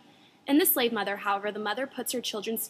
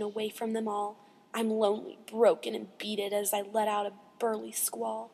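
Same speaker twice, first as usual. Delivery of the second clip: measured, expressive verse reading; poem recitation. Acted. Reader mourning a lost seagull, expressive poem recitation. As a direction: recite with pauses between the phrases.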